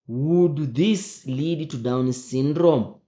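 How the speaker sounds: slowly, stressing "this" and "Down syndrome"; slow emphatic question. Shown as a demonstration. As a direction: drag out the question to make students think. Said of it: "let's read again".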